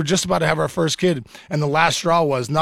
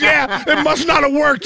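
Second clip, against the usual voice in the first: much higher and slow, laughing through it; laughing wife quote; 9 semitones higher, slower than usual. Retold or imitated. Voicing his wife's reply, laughing. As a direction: quote her while laughing.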